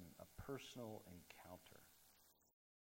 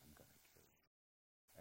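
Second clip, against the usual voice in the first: much softer, slow, lower menacing murmur; quiet villain threat; 6 semitones lower, 21 dB quieter than usual. Retold or imitated. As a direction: barely voice the threat like a calm movie villain. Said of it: "says in a very quiet voice".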